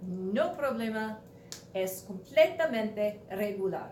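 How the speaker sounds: said slowly as a Spanish model; teacher slows for the class; slow Spanish echo. Shown as a demonstration. Teacher models the Spanish phrase slowly.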